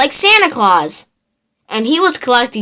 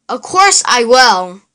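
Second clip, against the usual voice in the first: grumpy. Acted. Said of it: "Oscar grumped".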